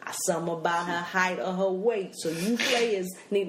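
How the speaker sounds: lightly voiced blaxploitation dad; Chicagoan-cool father. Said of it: "My father is this Chicagoan cool".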